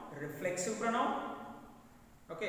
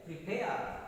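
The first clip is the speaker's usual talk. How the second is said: "prepare" with the weight on "pare"; stress on second syllable; 4 semitones lower than usual. Shown as a demonstration. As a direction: say pre-PARE as a model. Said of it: "stress is on second syllable".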